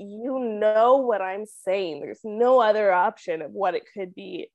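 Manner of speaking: exasperated retort, opening words drawn out; mock exasperation in recounting; frustrated. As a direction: retell your frustration, dragging out the first words. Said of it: "this is where I get, like, frustrated".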